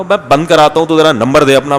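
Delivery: a light hint of a Lahori tough-guy swagger; mildly voiced Lahori street bravado; Lahori style. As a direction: imitate a Lahori lad squaring up, lightly done. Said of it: "وہ اپنے لاہوری style میں نا".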